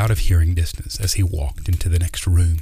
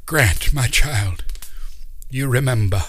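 put-on fond old uncle; 4 semitones higher, 3 dB louder than usual. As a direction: hold his face and greet him like a long-lost boy. Uncle Doc greets Grant.

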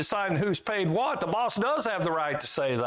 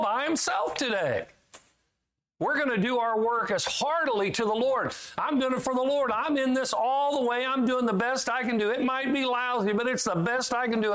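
a hint of a proud worker, a bit higher; earnest, keen and pitched up; lightly voiced eager worker; 6 semitones higher than usual. Eager worker telling lazy coworkers, mildly pitched-up devotion.

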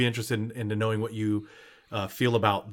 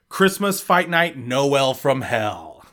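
announcer voice; much slower than usual. Acted. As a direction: lightly mimic a ring announcer. Host repeats title.

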